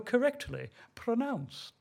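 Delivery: every consonant of "correctly pronounced" carefully sounded; precise consonants. Shown as a demonstration. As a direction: enunciate "correctly pronounced" like an elocution pupil. Mimicking her elocution-lesson consonants.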